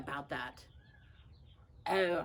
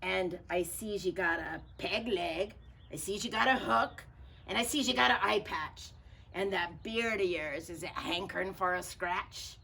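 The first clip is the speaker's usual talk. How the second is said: pirate captain; 3 dB louder than usual. Acted. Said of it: "said Pete".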